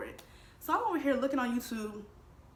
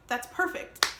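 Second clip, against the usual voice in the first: eager, rising louder and higher; bursting with delight at the offer; excited; 6 semitones higher, 6 dB louder than usual. Retold or imitated. Excited accepting job offer.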